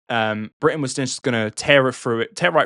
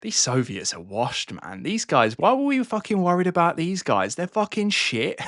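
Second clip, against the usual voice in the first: swaggering, scornful voice, rising much higher by the end; mock-dismissive Brits, pitched up; 5 semitones higher than usual. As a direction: sneer at the Soviets like a cocky bloke. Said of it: "the British and French went".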